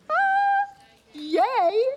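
high, loud joyful cry of delight; a burst of high delight; delighted cheer. Acted. God delighting in us, acted.

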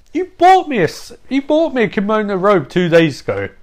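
high-pitched indignant protest; bickering, voice pushed up high; aggrieved complaint. Retold or imitated. Acted complaint in a bickering retold quarrel.

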